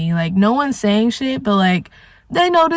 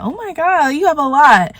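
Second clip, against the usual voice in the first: higher-pitched friendly amazement, retold; trying to be nice; 5 semitones higher than usual. Making an effort with a new acquaintance, trying to be nice. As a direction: gush politely, imitating your own nice act. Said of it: "I was trying to be, like, nice".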